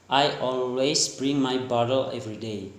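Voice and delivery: lightly attempted American accent; American-style bottle with a softened T. Shown as a demonstration. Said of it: "and the American".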